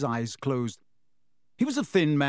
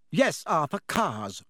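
icy anger; 2 semitones higher, slower than usual. Acted. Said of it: "her eyes flashing".

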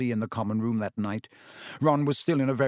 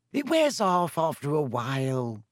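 brushing off the worry, mildly impatient; 3 semitones higher than usual. A narrator's reading. Girl waving away a friend's worry, impatient. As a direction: dismiss the objection. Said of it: "waving her hand impatiently".

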